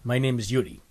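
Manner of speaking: light mock Russian accent; a hint of a joke Russian accent. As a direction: put on a slight Russian accent. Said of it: "you put on your, uh, your Russian accent".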